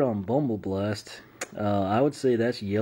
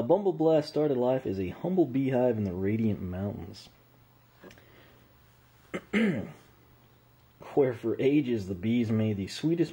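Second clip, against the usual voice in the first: story narration. Acted. Reads character backstory aloud.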